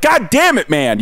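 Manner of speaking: imitated cursing call; attention-getting call. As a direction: call up to someone, mock annoyed. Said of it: "try and get Willie's attention".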